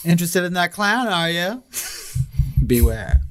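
hammed-up creepy whisper of a villain. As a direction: lure them in like a spooky clown. Creepy clown seller voice.

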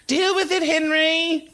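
high-pitched, offhand retort; dismissive colleague. Acted. Susan tells Henry to handle the students, high and dismissive. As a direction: toss it back in a high voice.

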